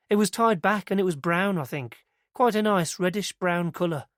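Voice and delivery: put-on earnest young witness telling it eagerly; girl's voice.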